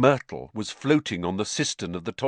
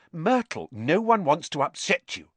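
put-on placating in a raised girlish voice; higher, soothing appeal; reassuring; 8 semitones higher than usual. A narrator's reading. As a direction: gently talk down someone upset. Hermione soothes the upset ghost.

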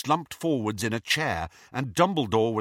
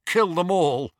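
cold command; 8 semitones higher, 6 dB louder than usual. Acted. Voldemort's command, echoed.

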